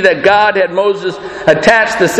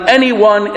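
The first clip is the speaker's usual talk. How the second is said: "anyone" given the stress. Shown as a demonstration. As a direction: hit the word "anyone". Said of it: "the emphasis is on the".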